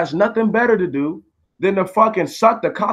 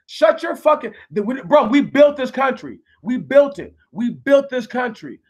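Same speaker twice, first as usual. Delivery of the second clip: indignant outburst, much higher; heated angry rant; 5 semitones higher than usual. Real, not acted. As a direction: tear into the troll, voice up high.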